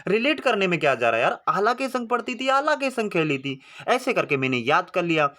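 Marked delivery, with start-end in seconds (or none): 1.5-3.6 sing-song recital. Shown as a demonstration. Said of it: "आप बोलो भैया आला के संग पढ़ती थी".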